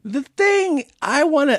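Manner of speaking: put-on high, drawn-out drunken interruption; mock drunk heckler; belligerent drunk lady. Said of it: "the drunk lady goes".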